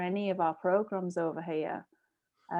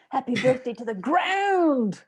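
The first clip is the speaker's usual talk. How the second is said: playful quoted line; 6 semitones higher, 6 dB louder, slower than usual. Retold or imitated. Quoting film line laughing.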